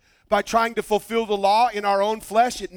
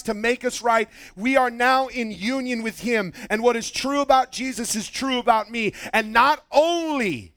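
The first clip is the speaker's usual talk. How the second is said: building sermon cadence; 5 semitones higher than usual. Real, not acted. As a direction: press each point on the congregation. Preaches in a building run.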